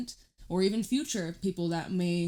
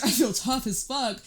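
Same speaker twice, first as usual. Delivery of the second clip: laughing; 4 semitones higher, 4 dB louder than usual. Real, not acted. Laughing about feeling tough.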